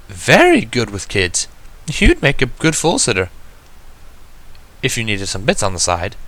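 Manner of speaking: a poised unicorn gently reminding her sister; Rarity's voice. Acted.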